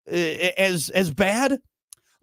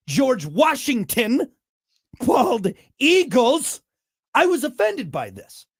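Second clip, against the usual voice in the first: mock patriotic outrage; 4 semitones higher than usual. Host replaying his rant about Brits being funnier, mock outrage. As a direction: play the offended patriot, hammed-up.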